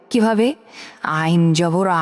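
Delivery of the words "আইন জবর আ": আ in "আইন জবর আ" held long, about one full second; stretched vowel. Shown as a demonstration. Teacher showing students how to stretch আ for one second. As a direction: draw out the final আ slowly like a Quran teacher. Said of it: "এক second টেনে পড়লাম".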